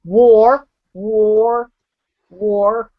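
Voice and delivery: "War" repeated, loud at first then fading; drilled war. Shown as a demonstration. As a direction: drill "War" three times, dropping each time. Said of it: "wa, ah".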